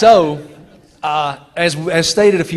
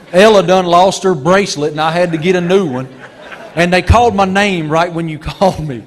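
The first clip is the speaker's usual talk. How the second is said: laughing Southern friend; 3 semitones higher, 5 dB louder than usual. Retold or imitated.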